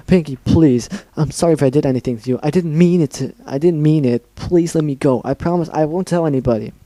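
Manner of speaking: urgent, pleading voice; desperate pleading. Acted. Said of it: "Desperately, Dash pleaded".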